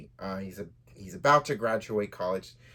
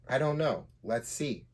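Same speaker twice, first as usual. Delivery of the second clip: joking; 4 semitones higher than usual. Acted. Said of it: "Charles jokingly said back".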